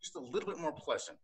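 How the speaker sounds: high, sugary polite voice; overly polite driver. Pretend. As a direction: thank the cop sweetly. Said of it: "Then I'd be like".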